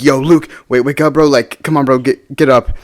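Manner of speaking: urgent retold pleading, pitched a little up; mildly freaking out. Friends try to wake collapsed Luke, mildly freaking out. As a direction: imitate friends trying to rouse him. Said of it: "everyone's freaking out".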